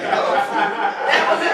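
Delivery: loud, high, drawn out through laughter; helpless laughter. Real, not acted. Joking with listeners about people switching names, laughing hard. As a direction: barely get it out for laughing. Cracking up at own joke.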